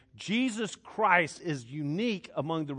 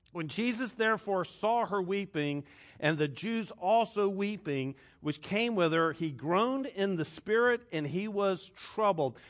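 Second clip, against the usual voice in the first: measured scripture recitation; scripture reading; 3 semitones higher than usual. Acted. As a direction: read the verse out, stretching each phrase. Reads scripture aloud.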